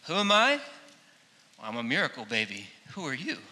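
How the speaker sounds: lightly voiced John playing it up; mock boasting. John imagined answering the delegation, mock boasting. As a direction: toss it off like a proud joke. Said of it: "all of the things that John the Baptist could have said".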